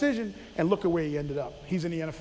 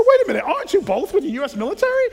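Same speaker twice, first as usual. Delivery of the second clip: higher, louder, fast incredulous question; 8 semitones higher, 6 dB louder, faster than usual. Retold or imitated. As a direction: challenge them, half-joking. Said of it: "I said".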